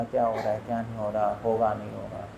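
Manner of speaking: low, soft self-questioning; quiet doubting aside. Acted. Teacher voicing someone frustrated in their practice, quiet doubting.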